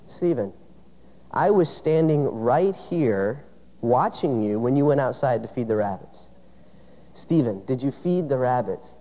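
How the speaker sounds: calmly corner the lying son; stern dad. Retold or imitated. Dad confronts son at window.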